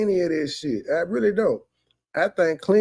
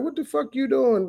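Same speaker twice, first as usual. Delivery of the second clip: imitating angry dad; 7 semitones higher than usual.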